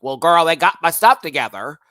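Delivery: loud, swooping impression; hammed-up queen impression; Trinity. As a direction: call it out with a big lift. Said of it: "I could do Trinity a little bit better".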